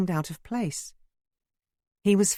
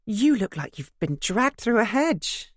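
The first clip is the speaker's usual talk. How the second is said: light teasing; 8 semitones higher, 4 dB louder than usual. A narrator's reading. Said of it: "I said lightly".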